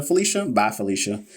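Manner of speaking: mock dismissal. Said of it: "I'm just playing".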